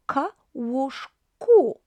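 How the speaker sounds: "k, łóżku" stretched slowly, k stressed; slow model word. Shown as a demonstration. Teacher showing how k takes the ending, slow. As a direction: draw out "łóżku" after a clear k. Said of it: "drop O".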